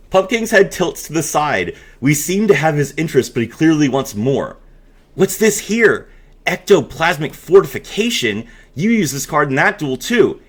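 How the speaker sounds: storyteller reading a spooky promo aloud; hammed-up narrator of a Halloween story; dramatic reading. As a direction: read it like a spooky campfire tale.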